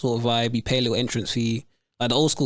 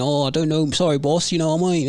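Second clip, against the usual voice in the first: put-on English accent; 3 semitones higher than usual. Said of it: "he starts speaking straight English".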